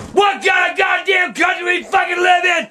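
real outrage, yelling at the TV; furious outburst. Real, not acted. Man yelling at the TV over the verdict, furious. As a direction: shout it in disbelief at the verdict.

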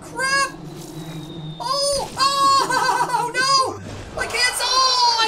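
high, loud shout broken by laughter; laughing shout. Real, not acted. Gamer caught by a hidden trap, laughing shout. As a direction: laugh and yell at once.

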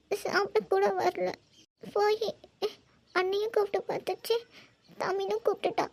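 weepy, guilt-laden mother with halting pauses; crying. Acted. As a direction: confess tearfully, in broken phrases. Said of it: "சொல்லி அழுந்துட்டு இருக்கியா நீ?".

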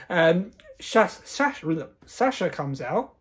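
stumbling over the words, unwell; tripping over the name while under the weather; mumbling. Real, not acted. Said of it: "I can't speak".

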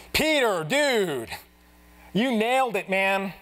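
jokey dude voice congratulating Peter; mock buddy praise. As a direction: pump Peter up like a friend.

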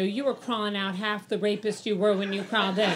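ordinary talk

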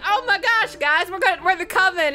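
put-on shrieking Coven girls. Coven girls shouting excitedly.

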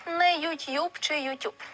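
YouTube said slowly as the wrong forms, with softening and apostrophe; wrong spellings said slowly. Shown as a demonstration. Teacher slowly sounding out wrong transliterations of YouTube. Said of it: "без апострофа та пом'якшення".

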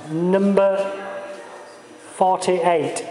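slow Lancastrian number call; Lancastrian accent. Pretend. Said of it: "I'll say it in my Lancastrian accent".

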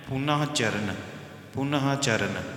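ਪੁਨਹ ਚਰਨ split apart, ਪੁਨਹ clearly as pu-na-ha; careful pronunciation. Shown as a demonstration. Teacher showing the congregation how to read ਪੁਨਹ ਚਰਨ, careful pronunciation. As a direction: spell out ਪੁਨਹ and then ਚਰਨ. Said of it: "ਇਹਨੂੰ ਇਸ ਤਰ੍ਹਾਂ ਪੜ੍ਹਨਾ ਹੈ ਜੀ".

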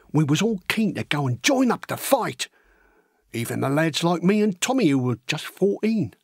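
chatty working-class lad telling his own tale; matey, plain-spoken soldier's yarn; young Cockney recruit recounting. Acted. Horace recalling how he went to enlist, chatty.

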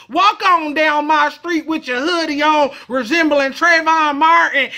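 lightly voiced redneck threatening; Southern white accent. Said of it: "white people that talk like this".

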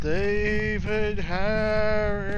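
slow spooky summon. Pretend. Summoning ghost by name.

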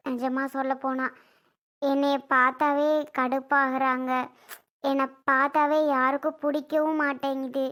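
a hurt mother's weary, subdued refusal; sad resignation. Acted. Mother turning down Ajay's money, subdued and sad.

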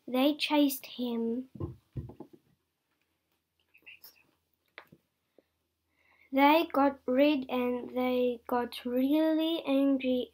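telling the exciting part with a burst of energy; excited storytelling. A narrator's reading. Child telling how the angry hens chased the puppy, loud and excited.

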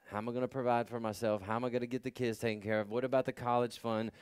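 fast, low, worried muttering to yourself; imitating a fretful believer; anxious rambling. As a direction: rattle off the worries in a hurry. Voicing people's anxious worries.

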